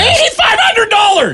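high teasing shout. Real, not acted. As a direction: yell the price in disbelief. Teasing outburst about ticket price.

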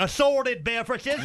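drawn-out comic uncle voice; stubborn uncle. Acted. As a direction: order it slowly, with total confidence. Uncle orders another heading.

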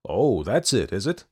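placating, indulgent voice; flattering. A narrator's reading. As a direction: humour them with flattery. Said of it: "in that flattering voice".

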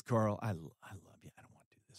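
a mild imitation of a father sobbing, fading to a whisper; imitating a sobbing father. Father speaks to his son after a spanking, a touch tearful. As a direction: lightly voice a tearful dad, breaking off into a whisper. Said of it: "And he's sobbing".

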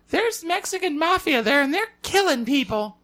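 high, breathy-free mock panic of a mom; mocking worried mom. Son imitating his worried mom, high mock alarm.

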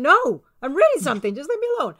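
second answer, losing patience with him; irritated brush-off. Retold or imitated. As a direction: push him away with impatience. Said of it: "I'm going".

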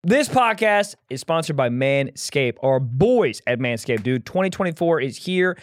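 sponsor ad read. Acted. Reads the sponsor ad.

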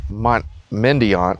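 Mendiant said slow in a Kentucky drawl, "Mendiant" as MEN-dee-ant; Kentucky accent. Shown as a demonstration. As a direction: say "Mendiant" the Kentucky way, flat American vowels. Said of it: "I'm gonna use my Kentucky accent on this one".

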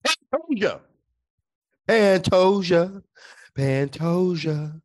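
a hint of drawn-out announcer call; announcer call attempt. Shown as a demonstration. Co-host trying the announcer name call, slow and drawn out. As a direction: stretch the name out slowly. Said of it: "Go ahead".

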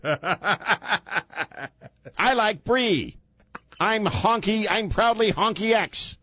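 high, gee-whiz mock white guy. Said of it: "let me use my white guy voice".

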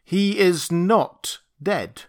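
slow, high-pitched proclamation; solemn, drawn-out announcement. Acted. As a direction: declare it word by word to the crowd. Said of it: "lifted up my voice".

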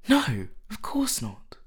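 loud, high, drawn-out denial; emphatic cry. A narrator's reading. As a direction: cry out the assurance. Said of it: "cried Dorian".

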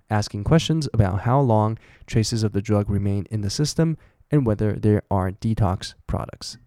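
steady read of a news article. Acted. Reading a news passage aloud. (朗读新闻稿)

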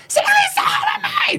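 high, drawn-out mock yell. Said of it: "这样就更大声的问这样子". (妈妈更大声地喊着问)

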